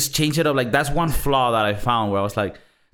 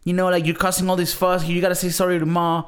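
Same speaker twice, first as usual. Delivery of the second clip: higher, lightly voiced Mark scolding; imitating Mark; 6 semitones higher than usual. Retelling Mark's scolding scene, lightly voiced imitation. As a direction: mildly mimic the brother telling him off. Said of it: "he's telling him, like".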